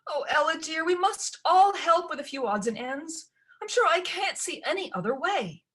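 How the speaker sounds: high, fluttering reassurance; fussy stepmother. A narrator's reading. Stepmother brushes off Ella's protest, high and fussy. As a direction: soothe her nervously, pitched high.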